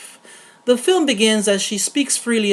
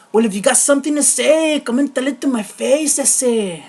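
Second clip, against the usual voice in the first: put-on higher-pitched Latino tough-guy accent; 3 semitones higher than usual. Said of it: "especially if you're Latino, we all grew up with the".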